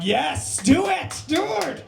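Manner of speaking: high-pitched, rising cheer. Acted. Straight guy rooting for a gay couple, cheering on. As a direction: egg them on, voice climbing high. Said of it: "I cheer 'em on".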